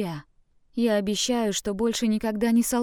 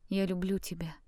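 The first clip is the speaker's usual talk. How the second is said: soft whisper into his ear; 6 dB quieter than usual. Acted. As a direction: breathe it softly, intimately. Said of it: "прошептала ему в самое ухо".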